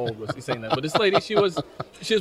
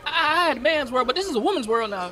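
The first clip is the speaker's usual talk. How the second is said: much higher raspy soul-star voice; a famous soul singer's voice; 12 semitones higher than usual. Acted. Introducing Aisha Tyler to the crowd, as a famous soul singer. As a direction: hype it like a soul legend. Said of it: "the singer has a song".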